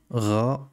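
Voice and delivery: "Ra" on its own, ghayn plus a; isolated syllable. Shown as a demonstration. Teacher isolates the first syllable, demonstrated "Ra". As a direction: model "Ra" apart from the word. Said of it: "la prononciation Ra ici".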